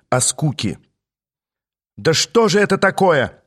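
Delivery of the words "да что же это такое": high-pitched, irritated squeal; screechy indignation. A narrator's reading. Queen complains from inside her room, screechy. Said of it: "донёсся визгливый голос изнутри".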